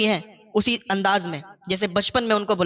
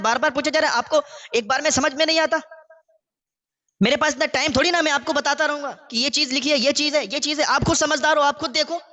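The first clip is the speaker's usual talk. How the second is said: put-on fast, higher, irritated scolding of an old father; angry scolding; 5 semitones higher, faster than usual. Grown son scolds his old father for asking again, angry and fast. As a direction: snap at him, fed up with repeating. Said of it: "تیزی کے ساتھ اونچی آواز میں بولا".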